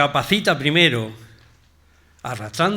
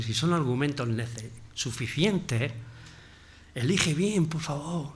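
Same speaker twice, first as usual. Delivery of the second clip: overly polite request; 2 semitones lower, 5 dB quieter than usual. Acted. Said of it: "Dios es un caballero".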